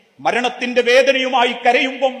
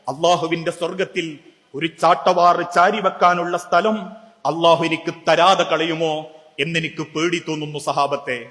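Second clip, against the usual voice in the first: tearful; 5 semitones lower than usual. Retold or imitated. Umar in the Madina mosque telling companions his fear, lightly tearful. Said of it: "കണ്ണുനീരോടെ പറഞ്ഞു".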